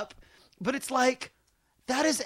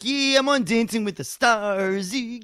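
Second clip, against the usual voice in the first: The Situation; 3 semitones higher than usual. Retold or imitated. Comic demonstrating a contestant who can't stop making sound, dopey drone. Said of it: "keeps making sound even when he's done with words".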